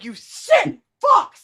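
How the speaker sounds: mock blurted-out shout. Retelling a movie priest who suddenly bursts out: imitating a priest's sudden outburst. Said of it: "burst out and you talk, you just say shit".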